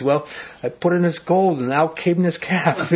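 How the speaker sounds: half-laughing mock of a spineless excuse; lame excuse. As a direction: play Aaron's excuse as sheepish and weak. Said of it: "the lamest excuse you will ever read".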